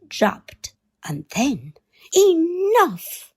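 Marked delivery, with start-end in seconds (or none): 2.1-3.3 high, loud shout to break up the fight; exasperated shout. A narrator's reading. Grown-ups shouting to stop the children fighting, loud. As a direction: cut them off sharply with a cry. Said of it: "cried the grown-ups".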